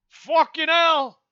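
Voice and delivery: frustrated outburst. Real, not acted. Vlogger exploding at himself, frustrated curse. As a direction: let it rip.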